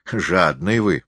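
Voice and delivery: high, drawn-out rustic character voice; drunken forester, goading. A narrator's reading. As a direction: stretch the words out high and boastful. (пьяный лесник, высоко и врастяжку)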